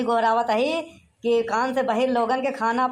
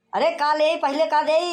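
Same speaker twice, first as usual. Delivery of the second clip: higher, raised voice for deaf ears; impatient shouting; 4 semitones higher than usual. Acted. Host asking the deaf man what to serve first, shouting. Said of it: "काहे चिल्लाता है?".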